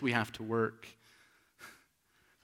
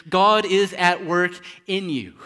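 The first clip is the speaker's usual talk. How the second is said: proclaimed shout; 7 semitones higher, 13 dB louder, slower than usual. Retold or imitated. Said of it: "He shouts in our ears".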